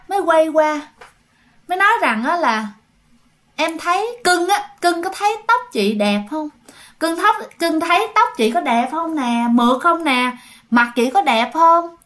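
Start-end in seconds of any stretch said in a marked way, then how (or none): 3.6-12.0 lightly voiced coquettish ghost, higher in places; slow, drawn-out questions fishing for praise; a hint of a vain spirit speaking through someone; possessed aunt's changed voice. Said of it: "nghe cái giọng dì Tư rất là khác".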